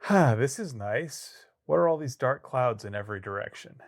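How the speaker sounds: lightly acted naive wonder; mock oblivious. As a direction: play someone blithely noticing trouble all around. Acting oblivious inside the hurricane's eye.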